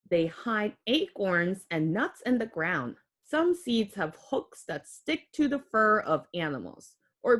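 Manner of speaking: put-on clear, gentle read-aloud for kids; reading to children. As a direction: read the book aloud to little ones. Reads picture book to children.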